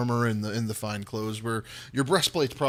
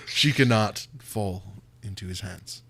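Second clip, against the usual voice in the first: subdued, weighty warning, lightly acted; heavy, sighing; 4 semitones lower than usual. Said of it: "He kind of sighs heavily and he says".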